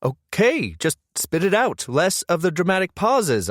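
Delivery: snapping impatiently at her drama; snapping back. A narrator's reading. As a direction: cut her off, fed up. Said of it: "I snap back".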